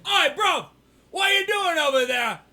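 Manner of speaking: high-pitched fake British call; mock British accent. Host hailing a mate in jest, high mock British. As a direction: call over in playful British.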